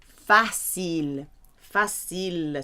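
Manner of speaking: "facile" said slowly, fa-SIL; slow French word. Shown as a demonstration. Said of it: "Difficile is".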